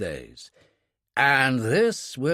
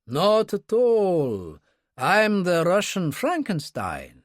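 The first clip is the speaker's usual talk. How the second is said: higher, grandly declaimed self-mockery; no apparent bitterness; 6 semitones higher than usual. A narrator's reading. Kurbsky presents himself to Dunkley, no apparent bitterness. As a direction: announce yourself lightly, without bitterness. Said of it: "delivered with no apparent bitterness".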